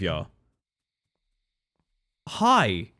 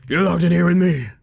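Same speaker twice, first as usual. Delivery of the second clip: menacing villain voice; 5 semitones higher, 6 dB louder than usual. Pretend. Playing a creepy game character line.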